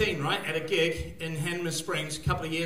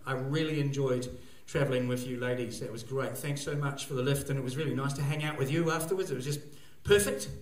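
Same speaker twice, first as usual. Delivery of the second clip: soft sincere text; 4 semitones lower, 6 dB quieter than usual. Retold or imitated. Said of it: "I texted my friend and said".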